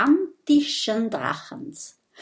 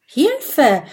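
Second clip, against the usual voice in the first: loud, high yell of "Hilfe!"; panicked child's shout; cry for help; 5 semitones higher, 6 dB louder than usual. A narrator's reading. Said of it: "schreit Mathilda".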